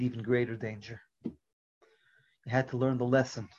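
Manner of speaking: calm, soothing explanation to the son; a father soothing his frightened son; reassuring father. Acted. Father reassures son after unmasking.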